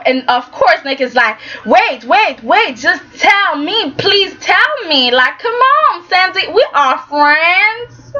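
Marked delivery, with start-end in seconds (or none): 1.6-8.1 rising, slow desperate begging; pleading. Retold or imitated. Nick begging Sandy for advice, pleading higher and slower. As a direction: beg her to stay, voice climbing higher.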